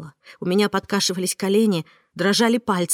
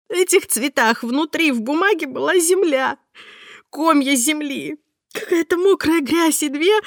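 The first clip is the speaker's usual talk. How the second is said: much higher tearful cry breaking into a laugh; hysterical sobbing; 8 semitones higher than usual. Acted. Heroine describes the bloody bird feet to Mark, hysterical sobbing. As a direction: sob it out, rising to hysteria.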